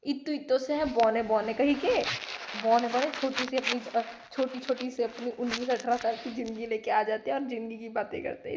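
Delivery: a lightly voiced mocking mother, teasing; mocking mom. Mom scoffing at her kids for talking about life, lightly mocking. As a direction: tease the little ones like mom does. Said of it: "mummy बोलती है".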